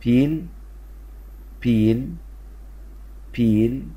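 each word said slowly and clearly, pausing for the class; clear model for repeating. Shown as a demonstration. Teacher models the word for pupils to repeat, clearly. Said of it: "قول ورايا كده".

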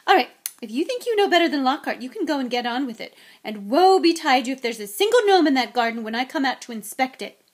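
loud, high motherly threat; angry ultimatum. Acted. Mother sending her sons to clear the garden, threatening. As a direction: order them out loudly, warning them.

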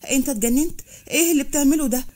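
acted shocked scolding; alarmed rebuke. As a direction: snap him out of it, voice climbing.

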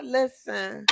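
ordinary delivery

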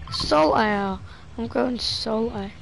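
slow, dry sarcastic drawl; deadpan mock sulk.

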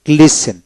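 "গ্লেসেন" with s straight into en, no T; silent T. Shown as a demonstration. Teacher showing learners a silent letter, "গ্লেসেন" without T. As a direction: model "গ্লেসেন" clearly, T left silent. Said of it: "টু উচ্চারণ হবে না".

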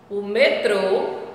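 "metrô" slow with closed stressed TRÔ; closed ô demo. Shown as a demonstration. Teacher modelling metrô for pupils, slow. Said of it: "tem o som fechado".

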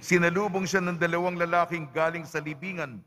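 measured scripture reading with deliberate pauses; Gospel reading. Acted. Priest proclaims the Gospel to the congregation, measured liturgical reading. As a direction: read the Gospel aloud to the congregation, phrase by phrase.

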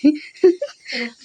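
short breathy laugh; hushed laugh. Real, not acted. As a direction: laugh under your breath. Stifled laugh while others sleep. (চাপা হাসি)

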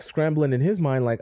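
normal talking voice

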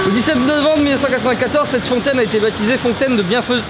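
even, announced inscription reading; reading aloud. Real, not acted. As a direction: read it out like a plaque. Reads a plaque aloud for camera.

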